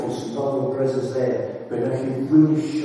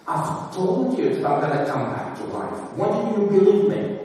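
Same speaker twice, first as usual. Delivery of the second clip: mock scolding; 8 semitones higher than usual. Preacher imagining Jesus scolding the disciples, a mock scold. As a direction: playfully scold the disciples as if you were Jesus. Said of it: "I would have scolded him".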